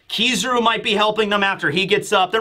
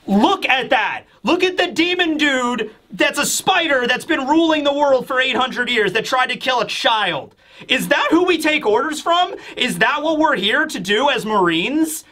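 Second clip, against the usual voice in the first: higher, heated, outraged speech; indignant appeal; 6 semitones higher than usual. Acted. Kizaru challenges the Vice Admirals, higher outraged appeal. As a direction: shame the soldiers into turning.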